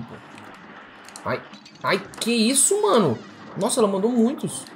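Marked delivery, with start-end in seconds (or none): 1.8-4.6 high yelp of disbelief; startled alarm. Real, not acted. Gamer facing too many shots, startled high cry. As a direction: react aghast, pitched way up. Boss fires a big barrage.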